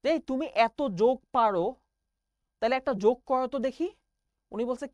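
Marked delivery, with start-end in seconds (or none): 0.0-3.9 mildly irked teacher, louder and higher; retold annoyed teacher. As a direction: challenge the pupil like a fed-up teacher. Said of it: "teacher মহা বিরক্ত হয়ে গেল".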